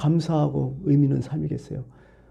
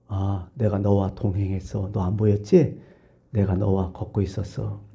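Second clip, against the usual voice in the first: lower, slow and gentle voice of Jesus; 5 semitones lower, 3 dB quieter, slower than usual. Acted. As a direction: speak softly as Jesus reassuring his follower. 예수님의 대답을 목소리로 연기. (낮고 느린 예수님의 목소리)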